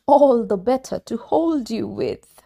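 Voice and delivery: the wolf hiding in granny's bed; sly wolf. Acted. Wolf disguised as Granny answering the girl, sly.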